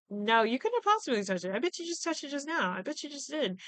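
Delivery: imitating a panicking killer. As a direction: gabble the denial like a cornered suspect. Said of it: "And he's like".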